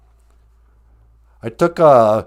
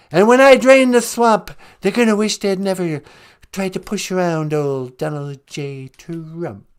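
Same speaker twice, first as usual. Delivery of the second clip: Trump impression. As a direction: puff up and boast like Trump. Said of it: "you do it, Trump".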